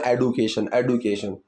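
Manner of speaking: एडुकेशन said bluntly with a hard d; blunt wrong pronunciation. Shown as a demonstration. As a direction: hit the D of एडुकेशन flat and hard. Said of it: "bluntly उस चीज़ को बोलना".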